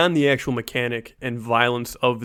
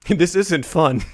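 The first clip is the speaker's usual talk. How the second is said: mock whiny fighter; 5 semitones higher, 3 dB louder than usual. Mocking the fighter's realization.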